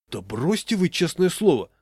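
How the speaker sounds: protest, rising in pitch and volume; indignant. A narrator's reading. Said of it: "возмутился Гришкин". (возмущённо)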